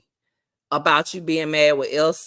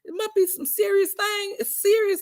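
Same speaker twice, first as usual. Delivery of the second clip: mock wonder; 13 semitones higher, 3 dB quieter than usual. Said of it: "And I'm like".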